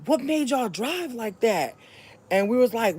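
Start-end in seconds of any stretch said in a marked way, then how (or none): 0.1-1.8 retold cop. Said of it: "He's like".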